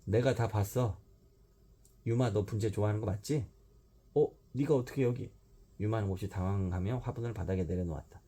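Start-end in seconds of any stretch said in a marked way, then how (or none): 0.0-3.5 높고 크게 잡았다는 듯; 증거를 들이밀듯 의기양양; triumphant gotcha. Acted. 뛰어나와 외침. 4.1-5.3 높게 놀라 되묻기; 들킨 듯 당황하며; startled. Acted. 유마가 깜짝 놀람.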